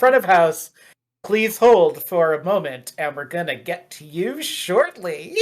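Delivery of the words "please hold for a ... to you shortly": mock hold message. GM putting other players on hold.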